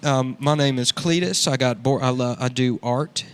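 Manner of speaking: lightly voiced redneck art hoe; redneck character. Cletus introducing his podcast, lightly redneck voiced. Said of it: "That's a good character, dude".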